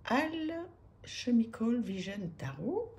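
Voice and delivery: English title read slowly with a French accent; self-mocking French accent in English. Real, not acted. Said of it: "avec mon superbe abs-, accent".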